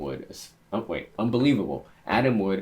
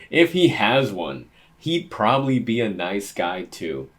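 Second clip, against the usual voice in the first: laughing; 7 dB louder than usual. Real, not acted. Rereads line still laughing.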